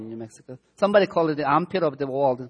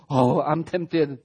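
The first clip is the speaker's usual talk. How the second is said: slow, hammed-up sigh of being tempted; sarcastic, drawn-out complaint; mock self-pity; slower than usual. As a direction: drag it out to poke fun at the fuss. Mocking our small temptations.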